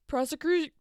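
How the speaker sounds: mock lawyer. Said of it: "Jimmy says something stupid like".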